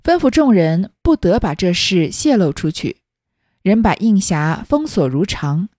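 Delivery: put-on slow, measured read-aloud of old fiction; classical story reading. A narrator's reading. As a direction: read the old tale out slowly, phrase by phrase. Reads the original story text. (缓慢而郑重地朗读古典小说原文)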